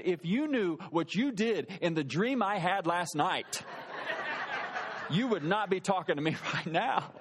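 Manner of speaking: slow, emphatic mock anger; measured imitation of a wife's scolding; imitating angry wife. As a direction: draw out the accusation, no shouting. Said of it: "I'd never seen her mad like this".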